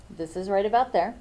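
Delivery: talking with something in mouth; words round something in the mouth; mouth full. Real, not acted. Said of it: "Sorry, I got something in my mouth".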